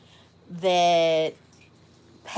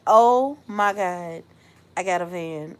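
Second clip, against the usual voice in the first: mild stunned disbelief; 3 semitones lower than usual. Retold or imitated. Acts out the news sinking in.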